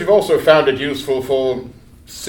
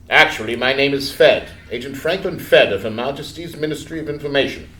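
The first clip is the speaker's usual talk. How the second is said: put-on crisp English accent, lower; 3 semitones lower than usual. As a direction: speak as an English agent. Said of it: "now in an English accent responds".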